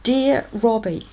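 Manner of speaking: a beaming, drawn-out hello to Robbie; delighted greeting. Acted. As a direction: savour the name with delight. Opening the proud final letter.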